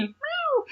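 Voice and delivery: squeaky, very high cat cry; pained meow. Acted. Meowth hit by the thundershock, hammed-up squeaky meow. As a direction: yelp like a hurt kitten. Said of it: "meowed in pain".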